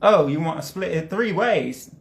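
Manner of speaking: mildly offended questioning quote. Acted. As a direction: read it as a friend taken slightly aback. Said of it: "He seems offended at the idea".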